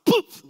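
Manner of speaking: sharp high puff of a blow; mock punch thud, loud and high; punch sound. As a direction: pop out an imitated punch noise. Punch to unjam the stutter.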